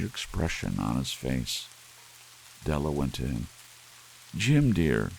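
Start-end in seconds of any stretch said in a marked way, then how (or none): 4.4-5.1 pleading cry. Acted. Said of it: "she cried".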